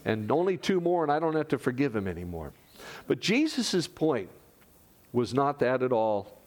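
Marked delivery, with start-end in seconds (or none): 0.0-2.5 counting off. Retold or imitated. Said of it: "hear him ticking off".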